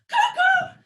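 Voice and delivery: very high, loud cuckoo calls. Pretend. Cuckoo clock springing out for the kids, high and loud. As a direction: pop up shouting like a clock bird. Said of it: "I'm a little cuckoo clock".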